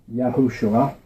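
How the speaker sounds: Yahushua said "yah-HOO-shua"; own pronunciation. Shown as a demonstration. Teacher giving his version of the name, Yahushua said "yah-HOO-shua". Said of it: "as I pronounce it".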